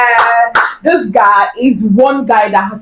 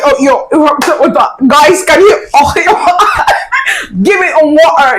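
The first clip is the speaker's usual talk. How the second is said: mock British accent; 4 semitones higher than usual. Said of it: "teach me this your British accent".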